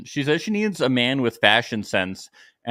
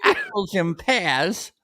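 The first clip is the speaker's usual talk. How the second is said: mock Cockney accent; 11 semitones higher than usual. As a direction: ham up Cockney rhyming slang. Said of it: "they use Cockney".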